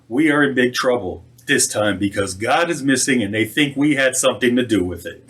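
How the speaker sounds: slightly lifted, measured storytelling voice; story read aloud. Acted. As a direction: read the tale out to a congregation. Reads a humorous story aloud.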